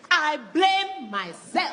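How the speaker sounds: slow, laughing mock-mom martyrdom; mock self-blame. Parent faking self-blame, slow mock martyr tone. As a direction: drag it out with fake guilt. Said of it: "they take false ownership".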